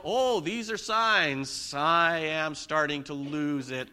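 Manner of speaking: slow, drawn-out realization; dawning self-alarm. Acted. Preacher acting out noticing his anger, dawning self-alarm. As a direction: stretch it out as you catch yourself. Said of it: "I go".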